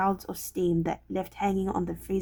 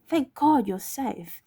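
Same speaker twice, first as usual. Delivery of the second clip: slow, higher-pitched relieved exclamation; utter relief; 5 semitones higher, slower than usual. Acted. Will to Evelyn as she stands there, utter relief. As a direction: let the relief out slowly. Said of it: "a smile of utter relief".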